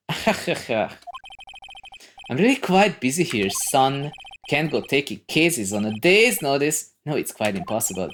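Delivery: blustering, pompous lawyer; Marvin Grossberg. Acted. Lawyer refuses the case to young visitor, blustering. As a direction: brush the request aside grandly.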